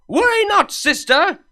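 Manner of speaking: high, loud heroic declaration; bold vow. Acted. Luna grandly promising to defend her sister. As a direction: proclaim it like a warrior.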